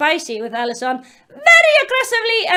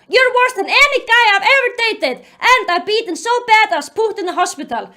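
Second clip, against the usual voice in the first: mock accusing yell; 4 semitones higher, faster than usual. Rereads Jennifer's yelled accusation.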